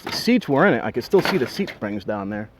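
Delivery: winded, breathing hard between words. Real, not acted. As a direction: talk while catching your breath. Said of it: "Sorry, I'm out of breath".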